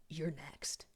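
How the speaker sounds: soft whisper, drawn out for suspense; whispered tease. Real, not acted. To the next viewer, a teasing whisper. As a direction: tease them in a hushed whisper.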